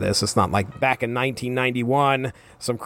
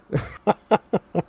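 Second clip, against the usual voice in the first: bright burst of laughter; amused high laugh; real laugh; 7 semitones higher than usual. Real, not acted. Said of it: "laugh at the line".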